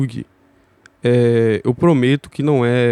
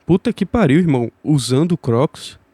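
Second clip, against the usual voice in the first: mocking bro voice; 4 semitones higher than usual. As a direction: scoff like a street bro seeing Crocs. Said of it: "e falar".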